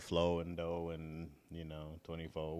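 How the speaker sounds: "flow", "dough", "twenty-four" with no R sound at the end; dropped R. Shown as a demonstration. Midwesterner showing local speech, R dropped in "flow and dough". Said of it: "we always say".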